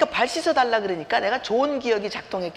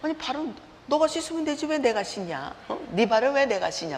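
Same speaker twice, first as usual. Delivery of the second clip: indignant retort; 2 semitones higher than usual. Retold or imitated. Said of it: "retold retort to husband".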